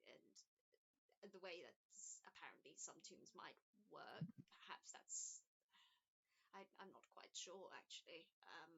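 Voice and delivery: a hint of a kindly, unsure old woman; elderly woman. GM voices Elizabeth again.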